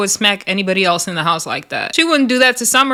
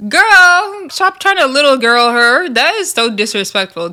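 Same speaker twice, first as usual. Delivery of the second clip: put-on louder, high exclamation on Girl; scolding; 4 semitones higher, 4 dB louder than usual. Scolding Tavy Baby for talking down, loud on girl. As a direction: call her out, half-shouting girl.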